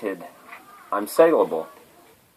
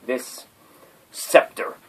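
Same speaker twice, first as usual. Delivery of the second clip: whisper; 4 dB quieter, slower than usual. Pretend. Word list, sudden hushed word.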